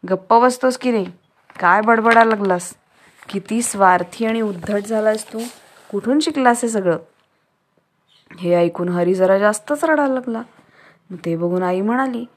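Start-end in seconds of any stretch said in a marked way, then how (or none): 0.1-7.0 raised, sharp fatherly telling-off; father scolds a selfish son loudly; scolding. Acted. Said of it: "बाबा त्याला ओरडले". (रागाने ओरडून रागावणं)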